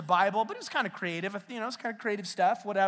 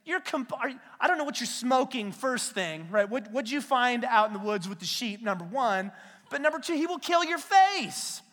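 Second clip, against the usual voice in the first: alarmed brothers; 2 semitones higher than usual. Retold or imitated. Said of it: "they're like".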